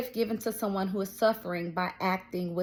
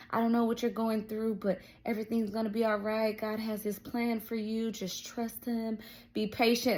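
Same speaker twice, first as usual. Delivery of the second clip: imitated comforting prayer; 2 semitones higher, 3 dB quieter than usual. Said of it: "she's just praying for me".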